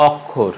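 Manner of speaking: অক্ষর with open "aw", "awk-khor"; common mispronunciation. Shown as a demonstration. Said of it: "আমরা বলি".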